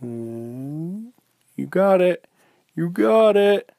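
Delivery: high cheer, building from a hum; excited coaching bear; straining encouragement. Acted.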